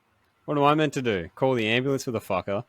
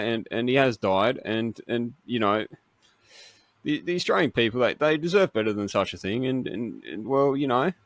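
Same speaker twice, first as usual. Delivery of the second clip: Dutton voice. Acted. Asked to read Harry Potter in his Dutton voice, stammering. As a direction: hedge every word like a nervous politician. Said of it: "your Dutton voice".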